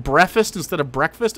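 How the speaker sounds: first Breakfast said as brefast without the k, second in full; brefast versus breakfast. Shown as a demonstration. Streamer mocking brefast, then breakfast said right.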